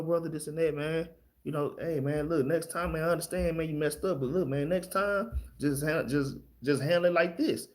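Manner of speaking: soft-spoken advice to a brother. Retold or imitated. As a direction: correct him gently and quietly. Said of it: "you could be soft-spoken".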